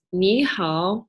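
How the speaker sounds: "你好" modelled with clear tones; Mandarin pronunciation. Shown as a demonstration. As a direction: teach "你好" carefully, syllable by syllable. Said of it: "to say hello or just hi is".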